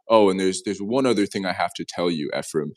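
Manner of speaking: a hint of an ominous warning, dropping low; teasing a friend with a fake grave tone; serious tone. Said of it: "he takes this very serious tone".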